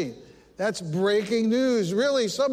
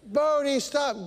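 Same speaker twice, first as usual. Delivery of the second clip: raised, higher calls after the dog; shouting at dog; 5 semitones higher, slower than usual. Retold or imitated. Chasing runaway dog down the street, raised mock shout. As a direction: call the runaway dog to stop. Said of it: "I'm shouting".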